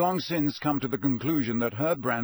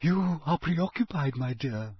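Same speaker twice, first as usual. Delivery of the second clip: mournfully; 4 semitones higher than usual. A narrator's reading. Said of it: "she said mournfully".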